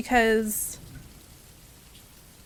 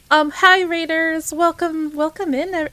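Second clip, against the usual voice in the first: excited greeting; 4 semitones higher, 5 dB louder than usual. Real, not acted. Greeting raiders.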